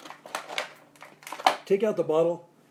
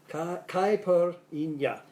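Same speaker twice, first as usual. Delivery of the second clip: mock Southern accent; 2 semitones higher, much slower than usual. Shown as a demonstration. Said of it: "as they say in the South".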